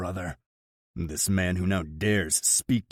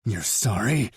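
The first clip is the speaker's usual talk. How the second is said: snarl; 3 semitones higher, 4 dB louder than usual. Acted. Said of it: "I snarl".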